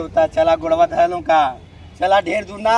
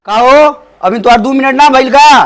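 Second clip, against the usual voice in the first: louder, higher impatient call; impatient shouting; 4 semitones higher, 5 dB louder than usual. Acted. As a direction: holler to hurry them up. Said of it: "मार इतना चिल्लात हवा". (बेसब्री में चिल्ला के)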